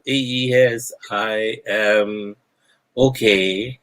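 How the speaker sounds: acted word-by-word answer, long gaps; very slow reply. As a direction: answer slowly, as if the listener struggles to understand. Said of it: "very loudly and very slowly".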